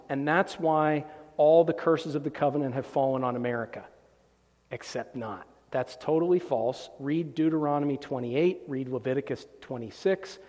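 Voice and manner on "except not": much softer, dropped deadpan retort; sarcastic aside. Real, not acted. Preacher dismissing opponent's claim, quiet and sarcastic. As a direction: mutter the dismissal under breath.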